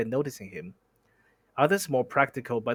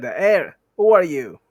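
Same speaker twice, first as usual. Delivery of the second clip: high, loud repeat of the purse's squeak; retold squeak; 4 semitones higher, 10 dB louder, slower than usual. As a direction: mimic the purse squeaking again, amused. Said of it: "The purse said".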